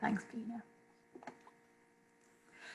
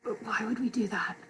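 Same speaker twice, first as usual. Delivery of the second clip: soft, whispery drowsy question; acted drowsy half-whisper; sleepy questioning; 8 dB quieter than usual. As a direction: ask it half asleep. Acting sleepy woken partner.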